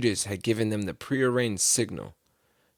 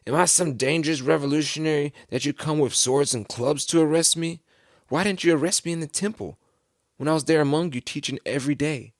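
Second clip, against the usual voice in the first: raised, higher-pitched rhetorical questions; indignant challenge; 5 semitones higher, 4 dB louder than usual. Retold or imitated. Jesus confronts his arresting crowd, indignant. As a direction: push each question at the accusers.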